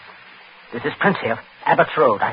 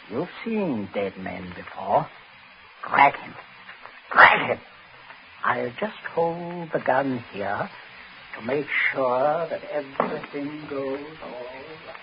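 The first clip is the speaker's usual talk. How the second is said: quiet menace; 7 dB quieter, slower than usual. Acted. Gunman pressing coldly.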